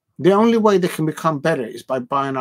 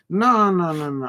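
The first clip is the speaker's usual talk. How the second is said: emphatic refusal; 4 semitones higher, 3 dB louder than usual. Real, not acted. Cuts in to reject transfer claim.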